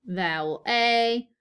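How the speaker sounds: vowel A said slowly and clearly; slow teacher model of vowel A; slow model answer. Shown as a demonstration. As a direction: spell out vowel A slowly for the class. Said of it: "whenever I say this".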